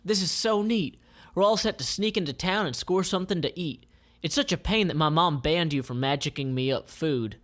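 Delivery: put-on high, fast, girlish delight; excited Jackie. Jackie delighted by the magic glow, high and bubbly. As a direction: gush like a thrilled young girl. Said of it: "and says".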